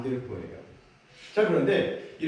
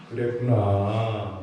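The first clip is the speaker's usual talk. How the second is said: gentle empathy; 5 semitones lower, much slower than usual. Shown as a demonstration. Pastor contrasting the mother's yelling with a tender reply. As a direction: soothe the child. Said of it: "이게 아니라".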